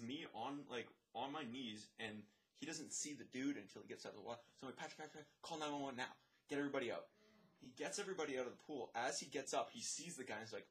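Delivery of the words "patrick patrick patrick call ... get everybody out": raised pitch, mock emergency call; urgent orders. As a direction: retell the urgent command without shouting. Retold urgent orders to coworker.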